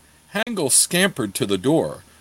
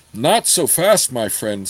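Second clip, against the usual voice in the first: cool. Acted. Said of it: "said Gord coolly".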